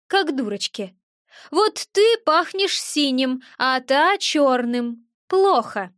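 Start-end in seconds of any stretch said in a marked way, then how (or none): 1.5-5.9 slow, grave little imp; lightly voiced gremlin, ominous. Gremlin warns the witch about smells, slow and grave.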